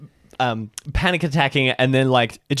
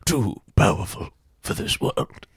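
mock grandiose; 6 semitones lower, 4 dB quieter than usual.

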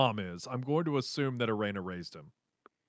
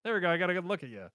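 high exclaim then rushed line; imitating Toph, fast and cocky; hammed-up blind Toph boast; mock Toph; 4 semitones higher, faster than usual. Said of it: "the fake actor Toph being like".

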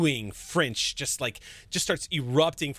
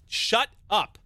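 angry snap; 8 semitones higher, 4 dB louder than usual. Acted. Mirani snaps at LaRoche.

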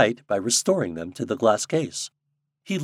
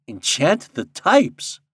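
slow, raised question with rising end; wondering; 6 semitones higher, 6 dB louder, much slower than usual. A narrator's reading. Popopo echoing the king's order, in wonder. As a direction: echo it slowly in puzzled wonder. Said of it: "echoed Popopo in wonder".

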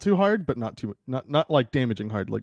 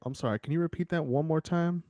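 whisper in left ear; 3 semitones higher, 8 dB quieter than usual. Acted. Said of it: "I whisper into your ear".

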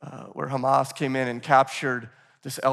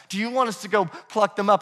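higher-pitched, mildly pushy question; on the offensive; 4 semitones higher than usual. Retold or imitated. Servants offering Jesus to pull weeds, on the offensive. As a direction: imitate eager volunteers asking permission. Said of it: "You can almost hear it".

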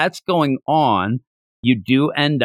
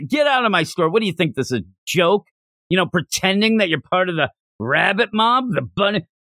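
mock outrage, pitched up but not shouted; retold angry yelling; 5 semitones higher than usual. Shopkeeper throwing a customer out, mock yelling. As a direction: imitate a worked-up telling-off, kept at talking volume. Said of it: "The guy starts screaming and yelling at her".

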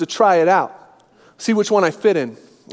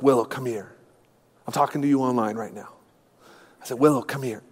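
gentle dad; 7 semitones lower, 7 dB quieter than usual. Retold or imitated. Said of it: "spiritual dad moment".

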